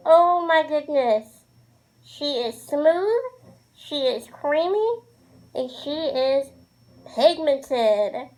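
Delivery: drawn out, sassy praise; gushing. Real, not acted. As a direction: savor each word like a treat. Gushing over the product.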